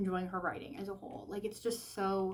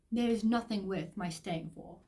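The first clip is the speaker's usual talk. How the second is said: bad British accent. Shown as a demonstration. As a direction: attempt a period-drama British accent, badly. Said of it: "such a horrible accent".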